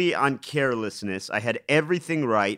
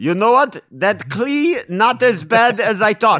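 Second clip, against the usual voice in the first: put-on failed German accent, very loud and high; 8 semitones higher, 8 dB louder than usual. Joking about Klee's art with the other speakers, attempted German accent. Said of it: "That was not a German accent".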